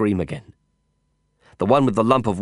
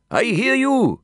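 shouting; slower than usual. Acted. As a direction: shout back reassuringly. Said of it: "he shouted".

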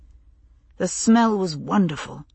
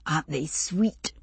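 whispered; 6 dB quieter than usual. Acted. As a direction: say it in a tender hush. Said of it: "she whispered".

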